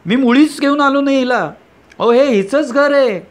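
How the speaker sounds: high, loud accusing cry; angry shout. Acted. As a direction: call her a liar at the top of your voice. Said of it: "तुम्ही ओरडता". (उंच, मोठ्याने संतापलेली आरोळी)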